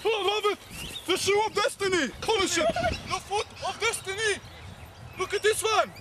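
high, excited goal call; gleeful mock commentary. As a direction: crow over each kick like a commentator. Mock match commentary while kicking Rudolph.

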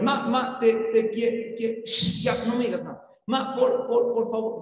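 put-on a child trying to stutter out an apology; mock stammering child; stuttering boy. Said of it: "el niño otra vez".

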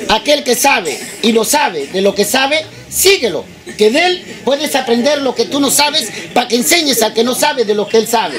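slow, with long pauses between phrases; slow motion. Shown as a demonstration. Comic repeats a tricky saying for the crowd, slow motion. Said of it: "en cámara lenta".

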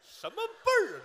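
high, loud, puzzled outcry; incredulous. Real, not acted. Questioning the old lady calling him brother, a high, loud outcry. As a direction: cry out at the odd form of address. Questioning the wrong form of address.

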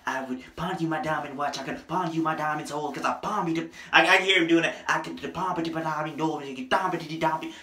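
mumble-rap it like a rapper's remix; lightly done rap in a famous rapper's style; imitating a rapper. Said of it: "I can hear a rapper on the remix".

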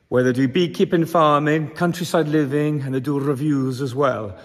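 put-on Welsh accent. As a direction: do the intro in a playful Welsh accent. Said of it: "In my best Welsh accent".

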